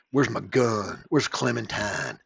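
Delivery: put-on lightly drawled Southern accent; hint of a slow Southern drawl. Gun owner looking for Clementine, mild Southern accent. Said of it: "don't know if that's his accent".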